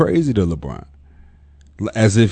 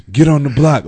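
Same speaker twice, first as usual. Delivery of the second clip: mock coach's yell, raised and louder; retold yelling; 4 semitones higher, 5 dB louder than usual. Coach scolding a big man for shooting jumpers, mock yell. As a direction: imitate being yelled at, voice lifted. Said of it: "getting yelled at for shooting jump shots".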